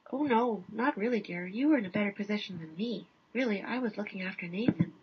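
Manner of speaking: a hint of a drowsy wife in a bathrobe; sleepy wife. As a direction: politely hand it back. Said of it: "Wife in bathrobe popping awake".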